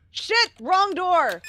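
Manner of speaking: high, loud frustrated curse; frustrated shout. Real, not acted. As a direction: yell at the mistake. Wrong door under pressure.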